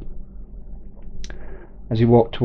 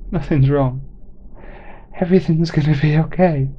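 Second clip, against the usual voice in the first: through tears; 5 semitones higher than usual. Acted. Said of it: "through tears".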